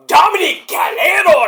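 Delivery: high, loud ring-announcer flourish; hammed-up name announcement. Host announcing the boyfriend's name, hammed-up announcement. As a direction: belt the name out high and drawn.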